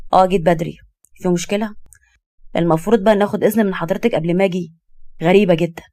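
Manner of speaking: cool, irritated comeback; curt husband, sarcastic. Acted. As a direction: brush off the question with mild sarcasm. Husband answers wife coldly.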